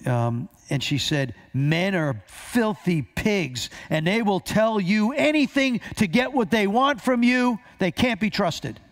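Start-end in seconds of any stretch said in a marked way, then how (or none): 1.5-8.7 acted edgy, almost angry tone, pitch climbing higher. Retelling what a woman answered when asked about men, imitating an almost angry tone. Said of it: "She got this angry tone".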